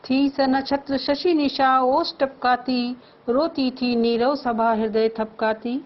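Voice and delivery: measured, lifted verse recitation; poem recital. Shown as a demonstration. Teacher reciting verse to the class. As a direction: recite the couplet with feeling.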